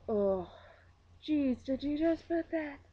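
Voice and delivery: exaggerated Minnesotan "oh jeez"; Minnesota accent. Minnesotan talk being discussed.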